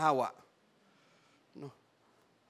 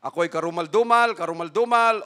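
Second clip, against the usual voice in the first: leper crying out; 5 dB louder, faster than usual. Acted. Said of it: "sisigaw yan siya dyan na".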